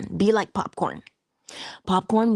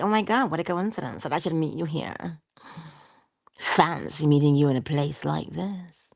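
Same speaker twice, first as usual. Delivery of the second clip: lightly put-on surprise, a bit fast; mock surprised exclamation. Teacher imitating someone at a chance meeting, mock surprised. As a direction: play up a fake coincidence. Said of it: "And you say".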